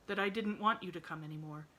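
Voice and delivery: a sad man pleading gently; lightly played lonely Mr Pendleton asking; lightly voiced sad invalid. Sad man asks the girl to visit, mild pleading.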